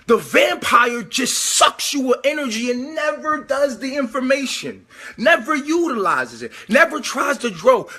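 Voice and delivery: worked-up preacher shout; heated rant. Real, not acted. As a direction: hammer the point home, yelling. Ranting about energy vampires.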